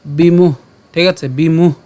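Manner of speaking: বিমুহ ending on a bare h, no vowel; h with hasanta. Shown as a demonstration. Teacher checks learners follow, বিমুহ closed on h. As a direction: stop বিমুহ on the breathed h. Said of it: "হসন্ত পর্যন্ত উচ্চারণ করলাম".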